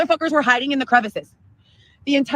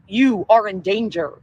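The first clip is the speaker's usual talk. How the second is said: robot voice; 4 semitones lower, slower than usual. Retold or imitated. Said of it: "And it's like a robot voice".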